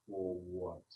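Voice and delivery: quiet, lightly voiced suspicious tree; a low wary question from old wood; tree questioning the bear; wary tree spirit.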